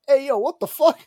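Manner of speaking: loud, high startled yell; startled shout. Retold or imitated. Startled yell at the guy kicking in bed. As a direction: yell it like you just grabbed a stranger's toe. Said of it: "and I go".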